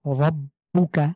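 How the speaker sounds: slow রব্বুকা with thick, full-mouthed র; drawn-out রব্বুকা, tongue curled back; heavy r. Shown as a demonstration. Teacher recites রব্বুকা with heavy র. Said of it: "রটাকে মোটা করে পড়ব".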